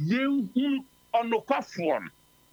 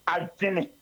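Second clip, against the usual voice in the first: sudden whisper; 3 semitones lower than usual. Shown as a demonstration. Preacher to congregation, whispering adwene to make them listen. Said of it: "Ha na mpɛ sɛ wotie ne yie".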